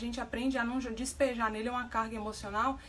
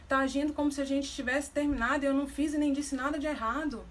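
defensive husband; 2 semitones higher than usual. Retold or imitated. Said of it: "aí ele já se arma".

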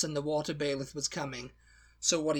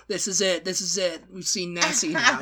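loud, triumphant announcement; excited; 4 semitones higher, 9 dB louder than usual. Retold or imitated. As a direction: proclaim it like a tabloid headline. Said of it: "It was like".

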